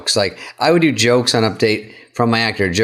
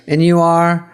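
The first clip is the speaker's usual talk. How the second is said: haughty, pitched up and louder; snooty receptionist; 6 semitones higher, 3 dB louder, slower than usual. Retold or imitated. Handler blocking the writer from the host, haughty. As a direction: look the writer up and down. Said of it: "She goes".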